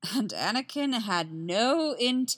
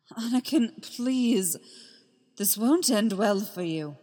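mild desperate plea to a friend; Obi-Wan begging Anakin to stop, mildly frantic; 3 semitones higher than usual. Acted. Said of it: "his voice frantic".

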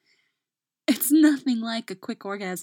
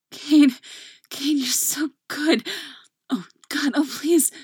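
crying out; 7 semitones higher, 7 dB louder than usual. Acted. Crying out in ecstasy.

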